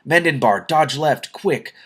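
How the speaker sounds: shout. A narrator's reading. Companion shouting a warning to Mendenbar, loud shout. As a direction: yell the warning to dodge, fast. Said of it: "then a shout".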